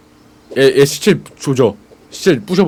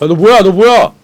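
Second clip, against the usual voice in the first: sharp raised challenge; loud challenge; 7 semitones higher, 6 dB louder than usual. Real, not acted. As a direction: demand who they are, loudly. Confronting a stranger.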